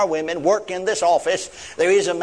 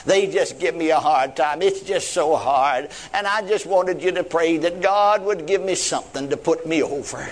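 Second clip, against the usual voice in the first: retold whine. Young woman asking for prayer, mildly whining. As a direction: imitate a tearful plea without really crying. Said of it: "She began to cry and to whine".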